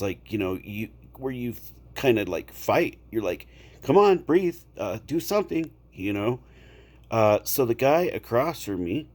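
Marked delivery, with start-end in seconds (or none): 3.8-5.7 high, loud, urgent plea to himself; desperate self-urging. Retold or imitated. Panicking man urging his own body to breathe, high and loud. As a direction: beg your own lungs to work, pitched up high.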